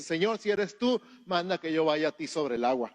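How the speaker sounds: loud, high call over the storm. Retold or imitated. Peter calling to Jesus from the boat, loud and high. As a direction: shout across the water to Jesus.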